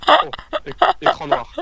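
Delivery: cri de surprise, aigu et fort; s'exclamer, pris de court; surpris. Real, not acted. L'écran devient noir soudain. (surprise soudaine)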